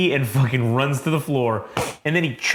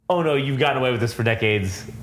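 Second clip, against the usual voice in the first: mock Daredevil. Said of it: "hypocrite ass Daredevil".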